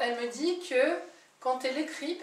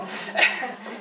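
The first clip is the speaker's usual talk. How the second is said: embarrassed laugh; 10 dB louder than usual. Real, not acted. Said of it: "je suis nulle là-dedans".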